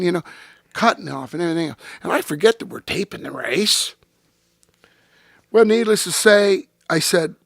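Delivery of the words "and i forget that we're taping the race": whisper. Real, not acted. Aside while telling race story.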